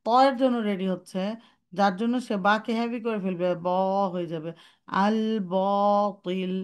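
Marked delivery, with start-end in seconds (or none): 5.0-6.5 slow আল বাতিল with the ba darkened; wrong take; heavy ba again. Shown as a demonstration. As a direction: stretch বাতিল heavily. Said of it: "no, no".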